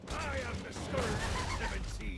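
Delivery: pirate voice. Acted. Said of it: "drop the pirate voice".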